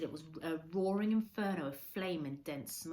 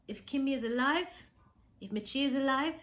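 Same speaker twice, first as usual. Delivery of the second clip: rising emotion; 8 semitones higher, 8 dB louder than usual. Acted. Old man emotional about family.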